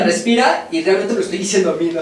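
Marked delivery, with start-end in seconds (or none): 0.0-0.7 a higher, louder first cue to breathe; telling her to breathe. Retold or imitated. Mother prompting her crying daughter to breathe. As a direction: call the word out to her, rising at the end. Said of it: "yo le digo a ella".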